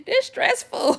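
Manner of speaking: high loud mock cry of being overwhelmed; stressed outburst. Overwhelmed mom after the kids' visit, mock loud outburst.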